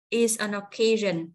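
"is an occasion" as one slow chunk, then stop; phrase chunking. Shown as a demonstration. Teacher showing where to cut, "is an occasion" as one slow phrase. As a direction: say "is an occasion" slowly and cut after "occasion". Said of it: "cắt chỗ này".

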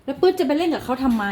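a mother telling off her pet; scolding cat. Real, not acted. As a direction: scold the cat for picking a fight.

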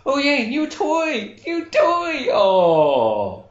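put-on thrilled kid squeal over a toy; squealing excited kid. Child shrieking with joy.

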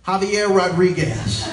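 deadpan name reveal. Acted. Worker states his name slowly.

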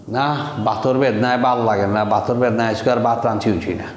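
quick everyday Sylheti Bengali; Sylheti dialect. Shown as a demonstration. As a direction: complain casually in Sylheti dialect. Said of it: "সিলেটি ভাষায় কি বললাম".

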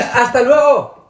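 loud goodbye. Acted. Despedida en voz alta.

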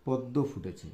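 steady, deliberate model reading for the class; slow careful reading. Shown as a demonstration. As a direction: read it slowly, word by word. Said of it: "এখানে আমরা একটু পড়ে নিই".

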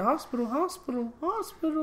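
rising repeated yells; mock yell. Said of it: "one of the words he yelled".

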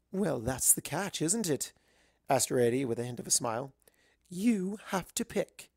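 playful genteel unicorn; sly refined mare. Acted. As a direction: tease with a hint of a smile. Rarity with a smile.

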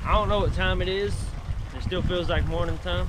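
loud voice over the wind; shouting over wind. Real, not acted. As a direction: yell so you're heard over the wind. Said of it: "I'm having to yell over the wind".

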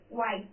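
"white" said "wite", no H; teacher demo of "white" with silent H. Shown as a demonstration. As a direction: say "white" with no H sound. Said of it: "You will read white".

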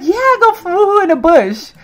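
high, loud put-on character voice; voicing the Sim. Streamer voicing eager Sim, high loud voice. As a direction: pitch it up high and cheer it loudly. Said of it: "she's like".

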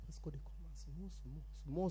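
very soft, barely there; like a radio at its lowest volume; volume turned down. Acted. Priest slowly turning the comedian's voice back up, very soft. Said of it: "call they turn the radio back".

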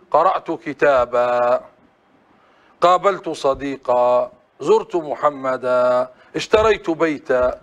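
slow, each final kitaba with a long open a; pausal alif on final tanween. Shown as a demonstration. Teacher drilling the class on the pausal alif, slow and clear. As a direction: model the pause form kitaba, stretched. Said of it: "كيف نقف عليها؟ نقول".

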